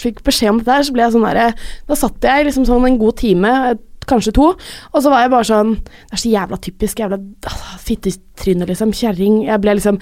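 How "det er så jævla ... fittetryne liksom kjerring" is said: cursing under the breath, half whispered; retold anger. Fuming alone after bad news, retold as whispered angry cursing. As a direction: let the swearing sink into a soft, voiceless grumble. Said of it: "jeg ble så sint".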